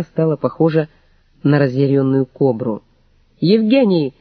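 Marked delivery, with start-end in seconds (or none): 3.4-4.1 wailing cry. A narrator's reading. Mother wails at her son as the rival walks in, outraged. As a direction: howl the name in outrage. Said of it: "возопила".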